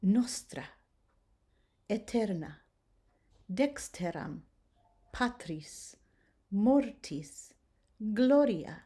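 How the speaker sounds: "Nostra" with a light tapped R in the middle; slightly rolled R. Shown as a demonstration. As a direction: tap the R lightly inside each word. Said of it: "So we're gonna roll it slightly".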